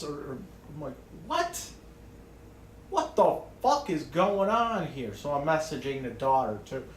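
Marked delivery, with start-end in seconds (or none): 1.3-5.1 retold disbelief. Retold shock at mom's message.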